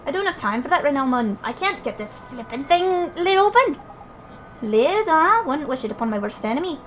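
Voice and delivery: lightly put-on, lilting character voices; colloquial, bouncy dialogue between game characters; game character banter. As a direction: play chummy fairy folk in animated banter.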